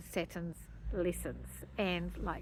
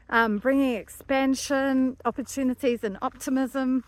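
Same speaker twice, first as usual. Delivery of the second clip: out of breath; 2 semitones higher, 5 dB louder than usual. Real, not acted. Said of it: "I'm running out of breath".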